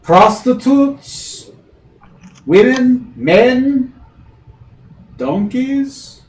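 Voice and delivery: brash barmaid sales pitch; barmaid patter. Acted. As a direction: reel off the menu like a brash barmaid. GM plays barmaid listing offers.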